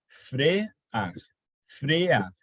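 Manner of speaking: Frear said as fre-ar, with the e and the a in separate syllables; a model take of frear to show the hiatus; syllable demo. Shown as a demonstration. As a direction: split frear into two beats. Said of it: "cada um numa sílaba distinta".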